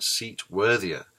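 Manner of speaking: "seat worthier" slow, each of the four syllables of "worthier" heard; syllables sounded out. Shown as a demonstration. Lecturer demonstrating four syllables in "worthier", slow and careful. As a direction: spell out "worthier" slowly, syllable by syllable. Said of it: "which is even four syllables".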